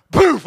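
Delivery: loud, punched "poof"; imitated impact noise. Billy retells his first shot on the hog, loud imitated poof. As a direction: burst out a mock shot sound.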